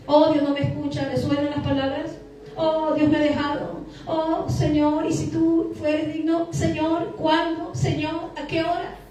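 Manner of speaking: lightly acted pleading to God, drawn-out and halting; imitated plaintive believer; plaintive prayer. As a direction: voice a doubting believer sighing up a prayer.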